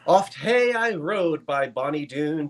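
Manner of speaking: slow, measured verse reading; poem recitation. Acted. Reciting a Burns verse for the auction audience, slow poetic recitation. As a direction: recite it unhurriedly, stretching the words.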